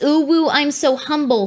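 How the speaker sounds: lightly voiced, fake-modest coo; mock humble voice. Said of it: "she always does this".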